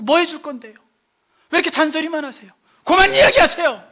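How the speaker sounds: high mock backtalk building to a shout; scolding retort. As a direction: talk back, fed up with nagging. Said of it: "또 막 욕을 해".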